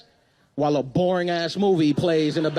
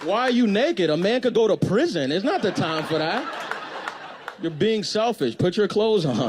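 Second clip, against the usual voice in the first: higher, fake-tearful protest; mock crying; 5 semitones higher than usual. Comedian to naked date, hammed-up tearful higher whine. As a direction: whine like you're wounded she's naked. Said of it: "And I'm crying, like".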